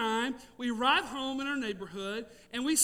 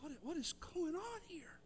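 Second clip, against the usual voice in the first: hushed, baffled whisper; 2 semitones higher, 15 dB quieter than usual. Retold or imitated. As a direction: breathe it out in disbelief. Stunned men in the dark yard.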